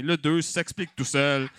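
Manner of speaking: ordinary talk, nothing marked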